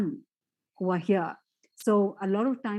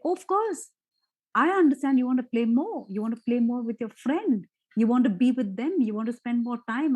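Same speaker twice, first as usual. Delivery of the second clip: calm understanding parent; 3 semitones higher than usual. Shown as a demonstration. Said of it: "So say something like".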